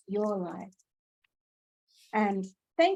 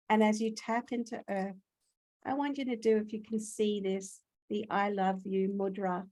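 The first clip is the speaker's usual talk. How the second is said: guided meditation. Acted. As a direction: lead listeners into stillness.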